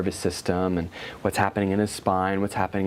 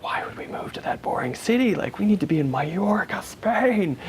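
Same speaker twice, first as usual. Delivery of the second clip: whiny ego; 10 semitones higher than usual. Acted. Ego objecting to moving to a boring city, whiny and high. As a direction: whine it indignantly, pitched way up. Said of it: "my ego sense was like".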